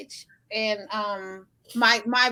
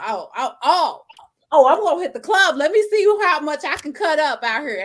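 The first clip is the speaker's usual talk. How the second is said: excited hype; 4 semitones higher, 5 dB louder than usual. Retold or imitated. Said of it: "acting her own bold plan".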